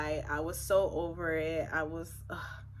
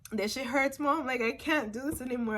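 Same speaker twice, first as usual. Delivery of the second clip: higher, mildly pleading complaint; retold tearful plea; 4 semitones higher, faster than usual. Daughter in labor telling her mom it hurts, pleading. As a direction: plead to mom, lifting the pitch. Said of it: "I started crying".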